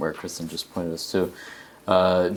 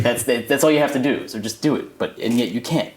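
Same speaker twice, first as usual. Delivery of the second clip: exasperated; 4 semitones higher, 5 dB louder than usual. Acted. Exasperated about simple tasks.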